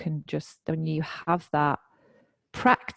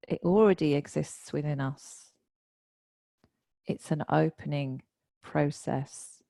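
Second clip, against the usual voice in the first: measured quote reading. Retold or imitated. Meditation teacher reading a guru's teaching to the group, measured and deliberate. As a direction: read each phrase deliberately, leaving long pauses. Reads out teacher's words from notes.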